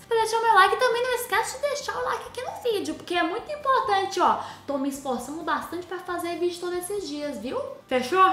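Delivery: high sweet begging for likes; pleading. Real, not acted. Youtuber begging viewers for likes, high sweet pleading. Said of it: "asking viewers for likes".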